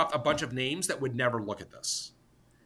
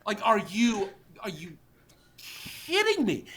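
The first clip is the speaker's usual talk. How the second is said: incredulous retort; 5 semitones higher, slower than usual. Retold or imitated. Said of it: "and I'm like".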